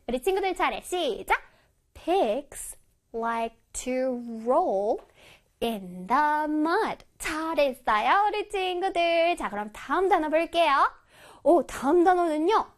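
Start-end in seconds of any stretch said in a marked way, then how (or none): 1.9-7.1 one word at a time with pauses; slow model reading. Shown as a demonstration. Teacher reading an example for children, word by word. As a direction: space out every word clearly.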